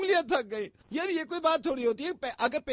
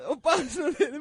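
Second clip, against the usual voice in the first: crying; 5 dB louder than usual. Acted. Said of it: "रो क्यों रही हो तुम?".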